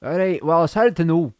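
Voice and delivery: tentative Scottish accent; attempted Scottish accent. Shown as a demonstration. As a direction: try on a Scottish accent, unsure of it. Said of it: "Liam J, can you do Scottish?".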